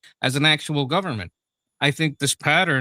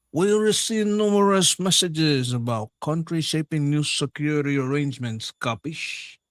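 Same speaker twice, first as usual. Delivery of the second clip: silky menace. Retold or imitated. Mobster voice parodying the statement.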